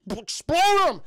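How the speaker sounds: high, loud hammed-up command; mock villain order. Zero ordering the helicopter to fire, mock shout. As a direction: bark it like a cartoon villain.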